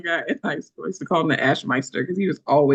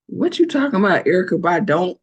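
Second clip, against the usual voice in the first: teasing comeback; 4 dB louder than usual. Retold or imitated. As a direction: tease him right back with a laugh. Coworker teasing him back.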